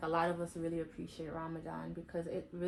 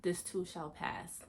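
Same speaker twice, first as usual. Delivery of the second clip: quoted cliche; 3 dB quieter, slower than usual. Retold or imitated. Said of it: "the quote".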